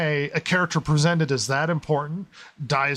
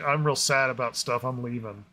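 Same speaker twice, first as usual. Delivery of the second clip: sourpuss; 4 semitones lower, 4 dB quieter than usual. Retold or imitated. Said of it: "he looks like a sourpuss".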